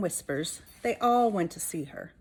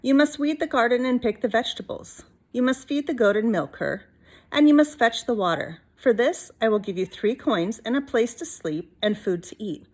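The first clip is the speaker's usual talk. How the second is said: a hint of a stern grandmother giving orders; gently bossy witch; lightly voiced old witch; 3 semitones higher, 3 dB louder than usual. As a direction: lay down the chores firmly. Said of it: "said Stregonona".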